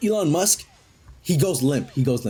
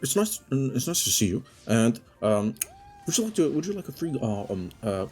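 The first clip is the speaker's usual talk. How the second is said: nervous stammering robot Elon; 2 semitones lower, 4 dB quieter than usual. Acted. Robot Elon nervously offers Sonic a gift.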